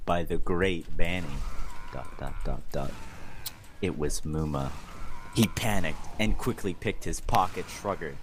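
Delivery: mock-serious fanfic narration; hammed-up storyteller; dramatic reading. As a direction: read it straight-faced like a novel. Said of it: "Dramatic reading".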